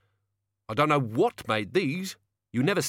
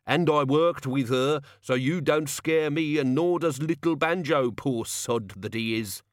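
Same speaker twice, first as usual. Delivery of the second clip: angry threat; 3 semitones higher than usual. Acted. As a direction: threaten him with the crowbar. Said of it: "he said".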